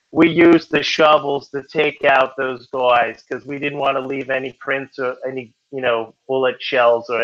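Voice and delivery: a light New York gangster accent, barely put on; a hint of New York mafia accent. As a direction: mildly play a New York mobster. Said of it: "that's my New York mafia accent".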